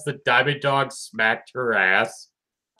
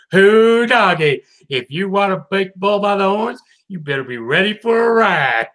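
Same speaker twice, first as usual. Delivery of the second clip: Applejack impression; 5 semitones higher, 4 dB louder than usual. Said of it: "Applejack's line here where she's just like".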